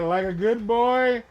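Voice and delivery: slow, lingering creepy delivery; lightly drawn out, predatory; creepy old man. Retold or imitated. Repeating the old man's line to the boy, slow and creepy. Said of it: "That's exactly how he says it too".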